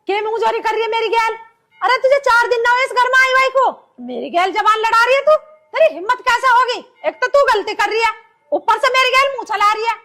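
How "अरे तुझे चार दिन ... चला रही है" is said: raised, indignant telling-off; outraged mother-in-law's rebuke; angry scolding. Acted. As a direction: scold the daughter-in-law for answering back. Mother-in-law scolding in quarrel.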